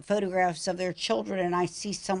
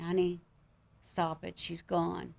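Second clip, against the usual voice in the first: calm her quietly; softer husband quietly settling her; hushed calming; 7 dB quieter than usual. Retold or imitated.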